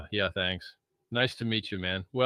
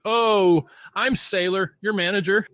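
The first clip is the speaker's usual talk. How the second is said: much higher and louder mock-boss voice; 10 semitones higher, 10 dB louder than usual. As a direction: ham up a squeaky impression of the manager. Mocking the boss behind his back.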